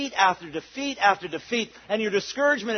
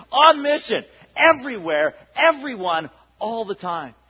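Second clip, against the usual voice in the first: louder slogan shout; 3 semitones higher, 6 dB louder than usual. Real, not acted. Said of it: "Here's my new slogan".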